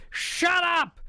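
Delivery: put-on sudden high, loud kid's yell; screamed retort. Retelling a kid heckling the wrestler, screamed. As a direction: blurt it out in a high shout. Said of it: "this kid screams".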